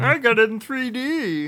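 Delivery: high-pitched silly voice; mock-proud high voice; silly boast. Silly boast about pirated copy.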